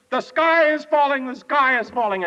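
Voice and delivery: high-pitched alarmed cry; mock scream. Chicken Little screams after the gooseberry hits her head, mock scream. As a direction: cry out in storybook panic. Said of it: "She jumped up and screamed and said".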